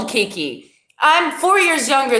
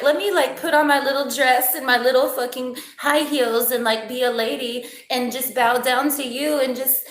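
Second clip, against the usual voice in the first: put-on prissy girl voice; 3 semitones higher, 3 dB quieter than usual. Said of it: "super prissy".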